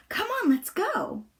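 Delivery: put-on an eager boy urging them on; Tommy. A narrator's reading. Tommy's line in the story.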